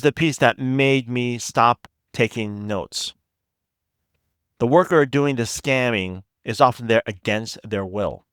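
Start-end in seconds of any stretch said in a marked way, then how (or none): 4.6-8.2 slightly slow, deliberate phrasing with pauses; said slowly. Real, not acted. Podcast host explaining an apparent contradiction, slightly slowly. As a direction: let it land a little slowly. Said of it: "I need to say that slowly".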